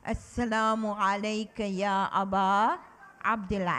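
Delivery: put-on measured recitation, led for children to follow; recited with the class. Shown as a demonstration. Teacher leading children in the greeting, recited. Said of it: "Can you say that with me?".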